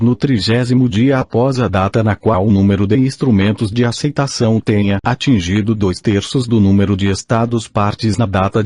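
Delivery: robotic text-to-speech reading; synthetic machine voice reading aloud. Real, not acted. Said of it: "com a utilização de voz sintetizada".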